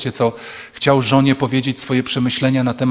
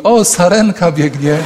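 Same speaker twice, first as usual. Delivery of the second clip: a touch of a wife chirping brightly, higher; light, slowed, dreamy aside; distracted wife; 5 semitones higher, 4 dB louder, slower than usual. Wife interrupting her husband's speech, lightly chirpy. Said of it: "żona mówi".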